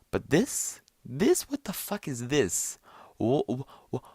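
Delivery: high-pitched, sputtering disbelief; incredulous. Real, not acted. Reacting to the video his friend showed, incredulous.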